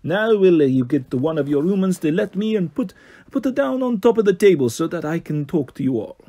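lightly voiced posh Italian lilt; a hint of a posh Italian boss giving orders; mild Italian-accented posh voice. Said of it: "higher, posh sort of voice".

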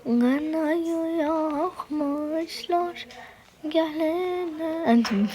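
playful Anatolian dialect; regional Turkish dialect. Acted. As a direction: put on a village Anatolian accent. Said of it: "Biraz şiveye geçtim".

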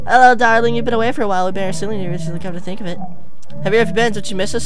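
a hint of a creepy doting wife; mother character. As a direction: speak sweetly to the missing husband, a touch unsettling. Mother character addresses husband.

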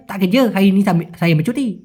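slurred, run-together Malaysian slang. Shown as a demonstration. Teacher contrasting the reply, in Malaysian slang. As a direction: swallow the sounds as in Malaysian slang. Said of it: "আর ওদের স্ল্যাংয়ে".

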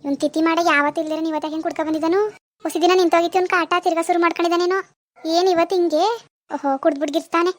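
irritated scolding. Acted. Complaining about drunk man's outburst.

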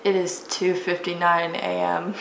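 tired late-night voice, barely awake. Real, not acted. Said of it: "Oh God, my tired voice".

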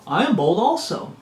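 swooping, sing-song repeat of a boast; playful boast. Acted. Preacher mimicking Paul's foolish boasting, swooping playful voice. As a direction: swing the pitch up as if showing off.

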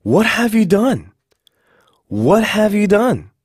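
high, slow, dramatic accusation; alarmed reproach. Acted. Teacher acting out the English example, high reproachful question. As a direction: draw it out high in shocked reproach.

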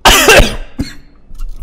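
loud harsh coughing; choking cough; coughing fit. Real, not acted. Coughing fit, something in throat. (tosse violenta)

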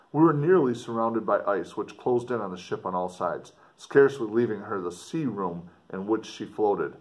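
put-on earnest, dramatic reading of an old letter; story narration. A narrator's reading. Explorer writing home to his sister, dramatic story reading. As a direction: read it like a gothic novel, with feeling. Reads letter four aloud.

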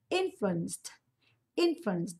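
"Influenced" ending in a crisp /t/; final t sound. Shown as a demonstration. Teacher models the ending for students, "influenced" with final /t/. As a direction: say "influenced" with -ed pronounced /t/. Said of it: "đọc là thờ nhá".

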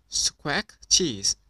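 loud squawking parrot, punching cheese. Acted. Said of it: "Polly Parrot copied".

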